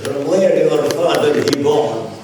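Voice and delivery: loud question in imitated Arab-accented English. Arab group leader asking about his caller's father, Arab accent. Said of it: "said in an Arab accent".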